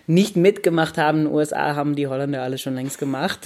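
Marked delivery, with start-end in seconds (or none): 1.8-3.4 laughing. Real, not acted. Laughing at Dutch modernity.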